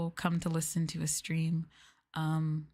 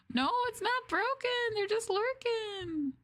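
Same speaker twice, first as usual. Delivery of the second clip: playful insistence. Real, not acted. Insisting stream isn't broken.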